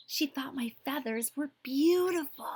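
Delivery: hushed secret; storybook whisper. A narrator's reading. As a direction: lean in and whisper it. Shares a secret compliment.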